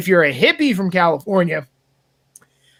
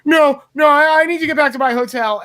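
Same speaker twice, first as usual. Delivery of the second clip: retold insistent shout; 5 semitones higher, 3 dB louder than usual. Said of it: "And he was just like".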